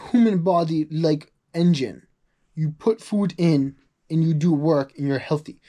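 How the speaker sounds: rough attempt at a Soviet accent; butchered Soviet accent. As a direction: imitate an old Soviet guy, accent badly done. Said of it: "I'm gonna butcher the accent".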